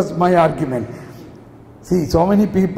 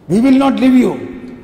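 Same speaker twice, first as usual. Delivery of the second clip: mildly raised, emphatic acted protest; insistent refusal; 3 semitones higher than usual. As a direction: insist with more force, voice lifted. Family holds back, repeated more forcefully.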